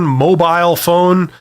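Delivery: mobile phone said slowly, mobile ending in "bile"; Canadian mobile. Shown as a demonstration. Canadian host telling viewers where the chat box is, slow "mo-byle". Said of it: "as I would say".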